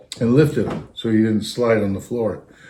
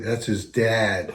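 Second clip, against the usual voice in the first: quiet aside; 6 dB quieter, much slower than usual. Retold or imitated. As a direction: lean in and murmur it. Driver says it quietly.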